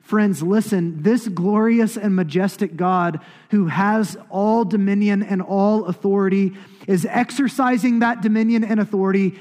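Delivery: slow, loud, high-pitched proclamation; preaching at full force. Real, not acted. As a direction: drive it home to the congregation, weighting each phrase.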